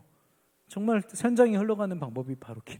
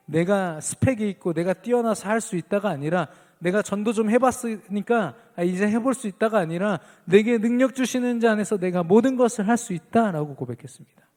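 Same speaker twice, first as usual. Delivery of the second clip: raised, louder preaching voice; emphatic preaching; 3 semitones higher, 6 dB louder than usual. Real, not acted. Preacher contrasting self-reliance with Paul's confession, emphatic preaching. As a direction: build in force toward the confession.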